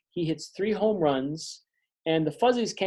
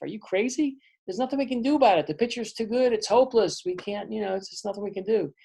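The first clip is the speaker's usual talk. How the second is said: higher, fast, exasperated complaint; hopeless teammate; 4 semitones higher, faster than usual. Acted. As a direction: throw up your hands, it's hopeless. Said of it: "then Pepe Perito says".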